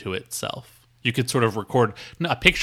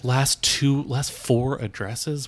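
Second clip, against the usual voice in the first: muttering to self; 6 dB quieter than usual. Acted. Muttering while filling form.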